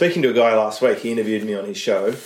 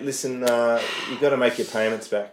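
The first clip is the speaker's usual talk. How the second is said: mock Aussie debt collector, blokey; lightly hammed-up Australian bloke; mock Australian repo man; 3 semitones higher than usual. Mate imitating a repo man calling about payments. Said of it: "with an American accent using American terms".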